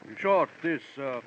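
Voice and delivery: lightly imitated film-villain voice; pompous, self-admiring oratory with deliberate pauses; Sidney Greenstreet. Boasting of his career to Johnny, lightly Greenstreet-like. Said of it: "fortunate similarity in voice and physique".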